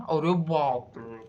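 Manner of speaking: drawn-out slow "arre baap re"; amazed exclamation. Retold or imitated. Shop owner marvelling at his own racket, drawn out. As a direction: stretch it out in wonder. Boss boasting about profit.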